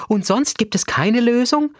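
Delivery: desperate cry. A narrator's reading. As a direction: plead for another way. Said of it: "rief unsere Lehrerin verzweifelt".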